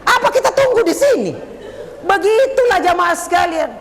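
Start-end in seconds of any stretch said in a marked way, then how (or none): 0.0-1.3 lightly voiced child telling mama to go; playful kid nagging mama, laughing; a hint of a child's whine; child pleading. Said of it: "Dia bilang".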